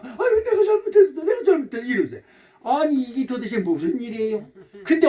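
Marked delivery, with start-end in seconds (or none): 0.0-1.8 high-pitched, pleading mock apology; imitated mother's plaintive fussing; appeasing mother. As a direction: coax a crying child with repeated apology. Mother appeasing her crying child.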